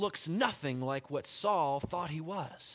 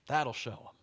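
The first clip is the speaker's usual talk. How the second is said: laughing repeat. Shown as a demonstration. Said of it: "That'll show 'em".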